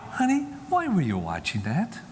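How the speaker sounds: easy, gentle parental question; casual, loving. Acted. Mother asking her son why he watched, casually. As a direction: ask it lightly, without accusation. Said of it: "And then just casually".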